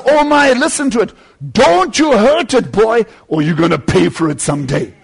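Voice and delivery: wagging a finger at the bugs; mock threat. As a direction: warn the bug, half playful.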